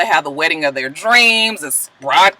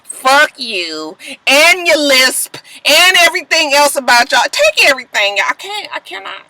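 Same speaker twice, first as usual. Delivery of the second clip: mock crying retort; 5 semitones higher than usual. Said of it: "I was just like".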